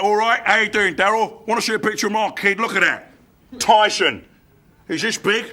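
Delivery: lightly voiced London bouncer; hint of a slurred Cockney doorman. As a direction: chat like a Londoner on a club door. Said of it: "This guy's huge Londoner".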